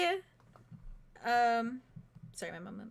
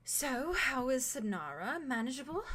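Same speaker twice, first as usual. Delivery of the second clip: soft question; 3 semitones higher than usual. Acted. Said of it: "very softly says".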